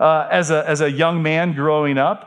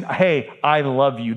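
tender love; 4 semitones lower, slower than usual. Shown as a demonstration. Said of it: "you gotta mix in love".

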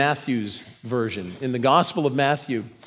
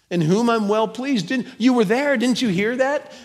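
higher, pressing and urgent; impassioned Jesus; 8 semitones higher than usual. Acted. Jesus presses his questioners about the witnesses, impassioned. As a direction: plead hard with them to see it.

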